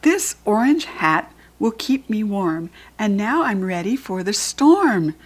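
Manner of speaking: picture-book storytime voice; reading to a child. Acted. Reads the book's rhyme aloud.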